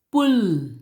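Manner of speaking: "Pull" said loud with a long, drawn-out U. Shown as a demonstration. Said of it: "a long U sound".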